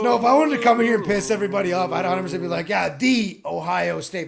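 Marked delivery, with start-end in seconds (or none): 2.7-4.3 slow, smug "Yeah, THE Ohio State"; mock Ohio State fan. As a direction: drag it out like a smug superfan. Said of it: "couldn't say that with a straight face".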